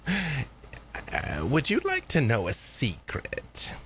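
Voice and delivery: lightly voiced mysterious elder; Granny. Granny offering her girl a secret, lightly mysterious. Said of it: "Granny's voice".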